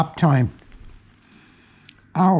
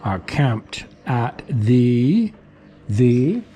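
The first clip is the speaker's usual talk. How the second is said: breathy whisper; 3 dB louder, much slower than usual. Real, not acted. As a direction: whisper it slowly. Whispered aside.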